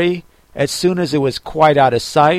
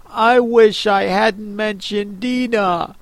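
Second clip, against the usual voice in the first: sad tone; 5 semitones higher than usual. Acted. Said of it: "in a sad tone".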